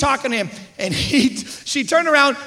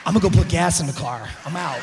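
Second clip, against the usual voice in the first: low, subdued exit line; bow out in a lowered voice; mock meek getaway; acted escaping husband; 6 semitones lower than usual. Acted husband slipping away from quarrel.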